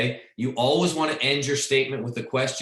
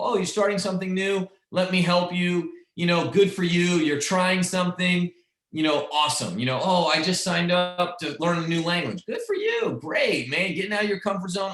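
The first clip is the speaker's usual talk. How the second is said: higher, bright-pitched cheering on a newcomer; eager encouraging friend; 5 semitones higher than usual. Retold or imitated. Friend cheering on a newbie, higher and eager. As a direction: gush with encouragement like a helpful friend. Voicing eager helpful people.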